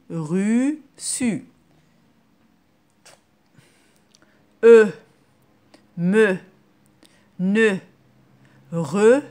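loud, slow syllables with pauses for the class to repeat; loud repetition drill. Shown as a demonstration. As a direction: drill the syllables loudly for young pupils. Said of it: "vous dites après moi".

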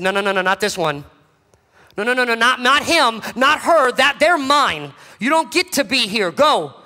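building protest to a firm go; firm rebuke. Acted. Jesus rebuking the devouring lion, firm and rising. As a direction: stand between them and the lion.

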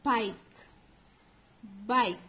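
BIKE said with a long "eye" vowel, silent E; long I sound. Shown as a demonstration. Teacher shows children how it is pronounced, long I. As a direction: draw out the "eye" in BIKE, then stop on K. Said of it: "we are pronouncing this as".

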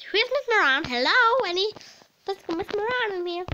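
high, loud calling into the room. Pretend. Pretend pupil calling out for Miss Moran. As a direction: shout out looking for the teacher. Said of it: "That was the best impression".

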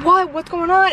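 retold alarm. Daughter calls to her screaming mother, retold alarm.

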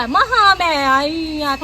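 slow, whimpering mock lament; whiny mock cry. Old woman whining about walking all that way, mock crying. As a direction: whine about the long walk.

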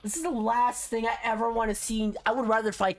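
high, slow mock-crying whine; whiny complaint. Real, not acted. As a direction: whine like you're about to cry. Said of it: "You're gonna make me cry".

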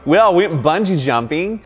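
put-on light New Zealand accent. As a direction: say it like a Kiwi. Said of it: "But I get the accent".

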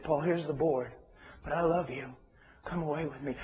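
soft and loving; softly, like calling a friend home; gentle voice of God. Retold or imitated. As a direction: coax him back quietly. God's gentle voice in the story.

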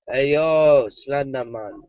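loud call across. Real, not acted. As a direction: call out loudly to him. Calling out to Slenderman.

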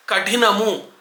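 కఠినము with breathy ఠ, plain k; careful model కఠినము, puff only on ఠ; correct aspirated tha. Shown as a demonstration. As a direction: say ka-THI-namu for కఠినము. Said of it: "ట్రాకి ఒత్తు ఉంటుంది".

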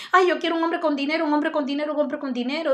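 imitación rápida y algo aguda de una mujer caprichosa; mujer quejumbrosa. Retold or imitated. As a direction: remeda con burla a quien busca dinero. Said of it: "personas también que buscan hombres desesperadamente". (burlona imitación de una mujer que pide un hombre con dinero)

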